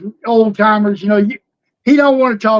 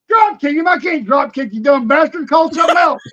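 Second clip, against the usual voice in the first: retold shout; 3 semitones higher than usual. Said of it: "Robin said".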